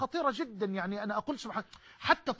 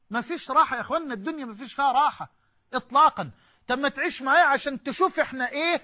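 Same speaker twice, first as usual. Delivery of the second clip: worked up; 3 semitones higher, 3 dB louder than usual. Real, not acted. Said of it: "معلش انفعلت بقى".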